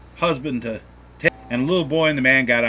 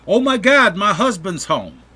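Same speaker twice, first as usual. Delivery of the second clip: higher, louder mock panic; alarmed wife; 7 semitones higher, 5 dB louder than usual. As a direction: voice a wife's sudden alarm. Wife alarmed as husband returns.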